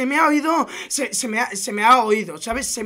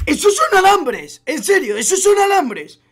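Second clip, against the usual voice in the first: higher-pitched disbelief; real amazed outburst; astonished; 5 semitones higher than usual. Real, not acted. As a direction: react as if you can't believe it. Astonished reaction to seeing wires in game.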